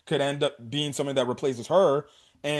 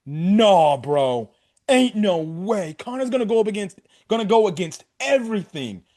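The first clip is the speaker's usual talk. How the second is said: incredulous protest; 5 semitones higher, 4 dB louder than usual. Retold or imitated. Exclaiming his reaction to the episode.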